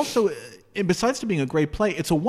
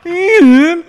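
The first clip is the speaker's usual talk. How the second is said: Vegas lounge announcer; 10 dB louder than usual. Pretend. Mock Vegas billing again.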